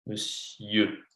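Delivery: « Monsieur » dit « meu-sieu », le « mon » devient « me »; monsieur bien articulé. Shown as a demonstration. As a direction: prononcer « Monsieur » comme « me-sieur », sans « mon ». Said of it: "Like this". (« Monsieur » prononcé « meu-sieu » lentement)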